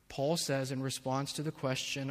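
ordinary talk

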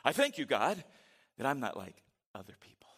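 smug, self-satisfied prayer with a lift on thank; praying with inflection. Shown as a demonstration. Preacher showing the congregation how the Pharisee prayed, smug. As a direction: pray it proudly like the Pharisee. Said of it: "You gotta add the inflection. You gotta read it like you'd pray it".

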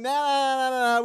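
put-on loud, high childish refusal; yelling. People with fingers in ears refusing God, yelling. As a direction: yell it to drown someone out. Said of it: "We're yelling".

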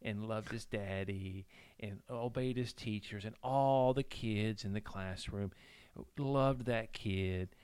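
storytelling preacher. Retold or imitated. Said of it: "the preacher's like".

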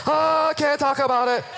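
high, strained, comic reply; hammed-up agonized secret-keeper; bursting with a secret. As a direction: squeal it as if holding it in.

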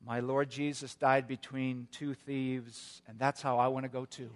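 hint of frailty, mustering the strength to speak; very weak voice. Dying pastor to his lawyer and tax agent, weakly. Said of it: "in a very weak voice".

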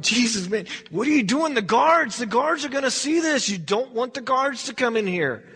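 mildly panicked protest; worried disciple. Acted. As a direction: plead anxiously, as if about to be caught. Alarmed disciples warn Jesus.

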